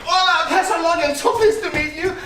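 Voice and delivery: put-on Mexican accent for a stranger. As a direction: greet him in a hammed-up Mexican accent. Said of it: "Why are you talking in a Mexican accent?".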